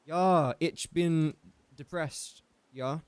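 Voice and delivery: slow, put-on German accent; playful attempt at speaking German; hint of a joke German accent; mock German accent. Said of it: "Hope that you guys like my German".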